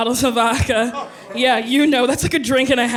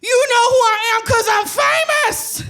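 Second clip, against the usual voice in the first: put-on drunk diva boast; 10 semitones higher, faster than usual. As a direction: boast like a tipsy celebrity. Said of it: "my response was".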